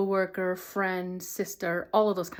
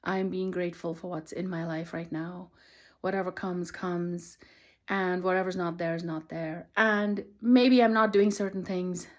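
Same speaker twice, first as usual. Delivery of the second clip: calm affirmation. Retold or imitated. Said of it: "And then finally saying".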